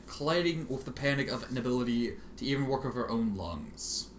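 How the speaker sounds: ordinary delivery, nothing marked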